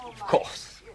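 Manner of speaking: quick whispered aside, breath only. Acted. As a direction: whisper it so only she hears. Whispered aside to Miss Halliday.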